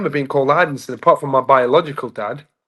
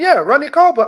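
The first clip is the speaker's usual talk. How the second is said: very high, louder Dominican-accented imitation; father's Dominican accent; 12 semitones higher, 5 dB louder than usual. Dominican dad confirms the comedian's name, imitated accent, high and insistent. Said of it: "Yeah, it's the accent".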